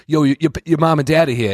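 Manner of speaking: high, stammered heads-up; urgent warning. Retold or imitated. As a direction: imitate a jittery friend sounding the alarm. Acting out friends' warning in film.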